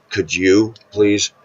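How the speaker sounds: could you please drawn out slowly, each word weighed; slowed pleading. Shown as a demonstration. Lonely man asking God for a date, slow pleading. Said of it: "say, "God, you know I'm lonely".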